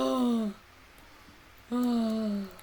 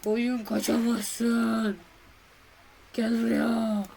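slow mock threat; 3 dB louder, much slower than usual. Chasing a sheep in game.

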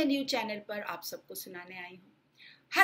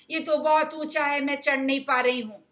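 put-on complaining girl; 4 semitones higher, 6 dB louder than usual. Girl struggles up the bed.

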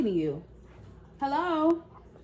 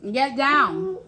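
louder, rising call of get down; 6 dB louder than usual. Real, not acted. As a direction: call out get down, pushing harder. Scolding pet off table.

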